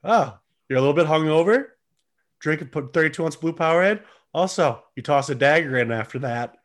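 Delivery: fast, upbeat sports drink commercial; Powerade ad voice. Pretend. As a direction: sell it like a quick TV ad. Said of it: "if I was Powerade".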